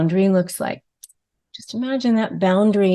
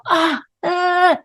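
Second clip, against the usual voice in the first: mock flustered outburst; 9 semitones higher than usual. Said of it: "As soon as you go".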